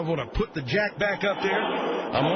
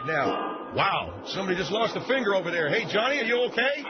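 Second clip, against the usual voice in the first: ordinary delivery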